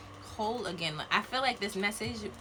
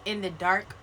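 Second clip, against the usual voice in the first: solemn card reading; slower than usual. Acted. Reads card slowly, solemn.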